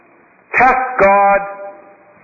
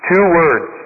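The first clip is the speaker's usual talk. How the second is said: lower, calm monk voice; a lightly voiced, lowered sage; wise old monk; 4 semitones lower than usual. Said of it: "The monk says".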